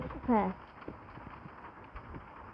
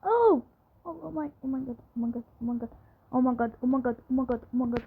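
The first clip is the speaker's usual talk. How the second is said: terrified horror victim; faster than usual. Real, not acted. Panics as the witch closes in.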